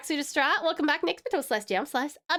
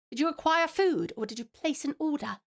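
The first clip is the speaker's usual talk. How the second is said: put-on a light British accent on the question. Asking chat about food in a light British accent. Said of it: "you get a British accent".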